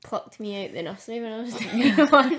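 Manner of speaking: laughing through the line. Real, not acted. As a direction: tease while laughing. Teasing with laugh.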